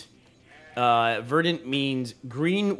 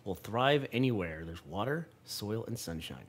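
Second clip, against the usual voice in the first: measured, lower read-aloud voice; 3 semitones lower, 4 dB quieter than usual. A narrator's reading. Parent reading game text to child, measured narration. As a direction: read it out softly and deliberately.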